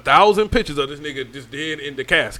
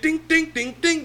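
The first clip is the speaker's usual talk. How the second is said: mock memory jingle, sung lightly; ding it like a cheerful app tune; imitated phone chime; 10 semitones higher, 5 dB quieter than usual. Mocking the jingle behind his dead father's photo. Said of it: "that little funny music".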